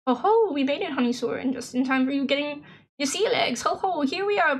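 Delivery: lightly voiced jolly sea captain; jovial skipper. Game player reading Skipper's welcome aboard, lightly acted jovial skipper. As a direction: give a hint of a hearty old sailor.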